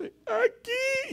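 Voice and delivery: very high crying voice; crying child. Retold or imitated. Son showing his arm in a very high crying voice. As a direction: whine it like a hurt kid.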